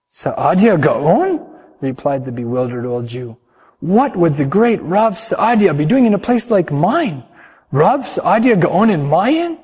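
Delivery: disbelieving and dismissive; bewildered old innkeeper. Acted. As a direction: innkeeper can't believe the rabbi stayed.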